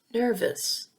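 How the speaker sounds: nervous with NER stressed, weak uh after; unstressed schwa. Shown as a demonstration. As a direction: say nervous as NER-vuhs, falling. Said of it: "is never stressed".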